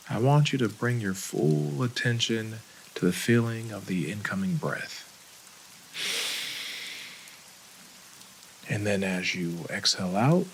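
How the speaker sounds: calm, unhurried meditation guide with long pauses; guided meditation. Acted. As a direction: gently lead them into breath and body, leaving space between phrases.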